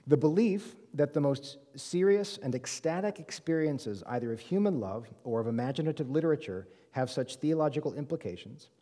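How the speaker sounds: deliberate, measured quotation; slow reading. Real, not acted. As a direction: read the quote out carefully and slowly. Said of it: "I'll read it slowly".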